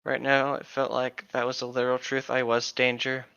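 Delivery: story reading. Acted. Reads novel aloud.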